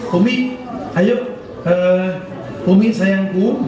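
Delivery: sweet greeting to wife. Pretend. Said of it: "kepada istrinya menyapa".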